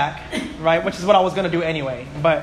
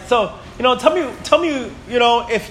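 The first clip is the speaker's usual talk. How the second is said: higher, halting acted questioning; pitched-up, stop-and-start interrogation; pressing question; 6 semitones higher than usual. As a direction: act out prodding someone for a straight answer. Acting out someone pressing for answer.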